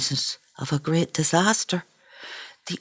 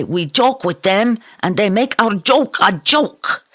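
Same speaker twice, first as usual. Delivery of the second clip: crying out; 3 semitones higher, 4 dB louder than usual. Acted. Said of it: "Fareed gave a cry".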